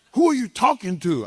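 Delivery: high, fast, incredulous yelp of a question; indignant disbelief. Retold or imitated. A wrestler shocked at being threatened, high incredulous yelp. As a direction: squeak it out in offended disbelief.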